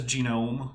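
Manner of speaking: GENOME copied in the speaker's odd way, drawn out; imitated odd pronunciation. Co-host quoting how the speaker says it, odd drawn-out GENOME. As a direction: imitate his peculiar GENOME, stretching it. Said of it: "The same reason he says".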